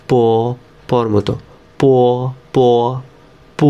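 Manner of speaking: প said as a crisp unaspirated p, never ব; Chinese b as unaspirated p. Shown as a demonstration. Teacher correcting the pinyin b sound to প. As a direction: say প with no breath and no voicing. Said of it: "কিন্তু ব হবে না, হবে".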